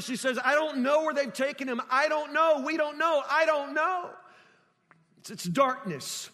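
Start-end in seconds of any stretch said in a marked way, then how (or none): 0.4-4.1 higher-pitched, helpless repetition; distraught, words tumbling out. Retold or imitated. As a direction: imitate a bewildered grieving woman, insistently repeating. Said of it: "words that tumble out of her mouth over and over and over".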